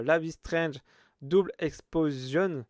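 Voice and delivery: Life is Strange said with a French accent; French-accented English. Real, not acted. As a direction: read the English title the French way. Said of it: "désolé pour mon accent".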